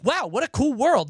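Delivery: high, loud mock amazement; mock wowed. Streamer mimicking himself gushing at a movie, mock wowed. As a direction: gush like a wide-eyed fan. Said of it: "That shit was like".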